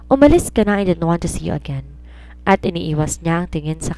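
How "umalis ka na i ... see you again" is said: angry. Acted. Angry dismissal in quarrel.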